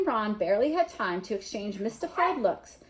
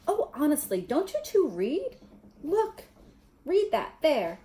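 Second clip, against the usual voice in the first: high, impatient scolding; huffy know-it-all, pitch up high; exasperated; 5 semitones higher than usual. Acted. Hermione exasperated with the boys.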